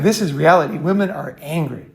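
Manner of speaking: ordinary talk, nothing marked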